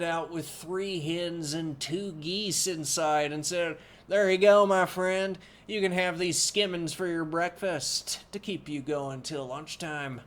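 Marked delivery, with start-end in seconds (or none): 4.1-10.2 loud, hearty cook's voice, higher; booming cook. A narrator's reading. Jolly cook booms a gift to Sancho, loud and hearty.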